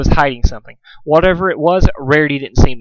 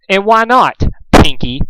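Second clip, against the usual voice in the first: high, mocking taunt; smirking; 7 semitones higher, 4 dB louder, slower than usual. A narrator's reading. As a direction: needle her with a smirk. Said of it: "smirked Rarity".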